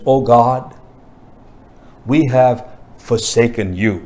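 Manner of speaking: low, hushed admission with long pauses; sorrowful confession. Acted. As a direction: confess it to God, dropping low and halting. Voices Ezra's confession to God.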